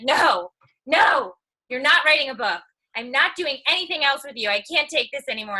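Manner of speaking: a retold shouted "no" from the husband; mock husband outburst. Husband refusing her book idea.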